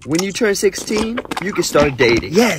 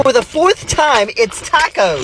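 higher, fed-up retort; exasperated; 7 semitones higher than usual. Acted. Wife to deaf husband, high and fed up. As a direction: snap back that you've answered already.

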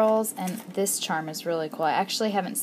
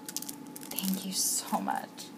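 slow, whispered, much softer; grateful whisper; 8 dB quieter, much slower than usual. Real, not acted. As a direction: breathe thanks slowly. Grateful for gifts.

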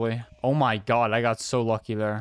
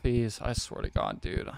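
scared whispering; 6 dB quieter than usual. Real, not acted. Streamer pleading while hiding.

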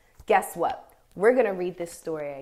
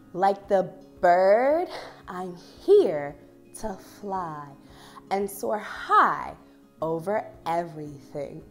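slow, deliberate picture-book reading; reading to children; 6 dB louder, slower than usual. Acted. Teacher rereads the bird line for dancers to act out, slow story reading. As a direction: draw out each phrase, pausing between.

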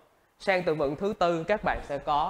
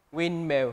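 Windmill with the stress on WIND; stress on first syllable. Shown as a demonstration. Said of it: "nhấn vào âm đầu tiên".

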